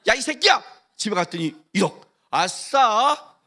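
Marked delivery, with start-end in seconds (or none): 0.1-0.6 loud, higher swearing shout; hammed-up furious yell; mock cursing. Acted swearing insult. 2.3-3.4 slow, drawn-out stretched cheer; hammed-up yay; gleeful cheer. Cheering at money.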